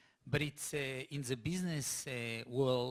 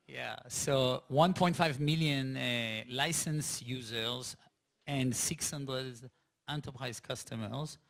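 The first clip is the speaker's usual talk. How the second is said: slow and careful; 3 dB louder, slower than usual. Real, not acted. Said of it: "Wanna clarify".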